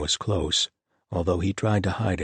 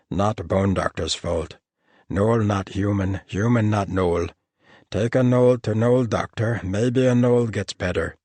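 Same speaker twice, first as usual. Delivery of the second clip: blunt gnoll logic, pressing the point; stubborn gnoll; 3 semitones higher, 5 dB louder than usual. A narrator's reading. Gnoll insisting to Piper about gnoll medicine, insistent.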